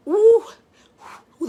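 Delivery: a high, loud ooh of delight; excited ooh. Real, not acted. Cook showing heart of palm to viewers, excited ooh. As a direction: show it off with a little squeal.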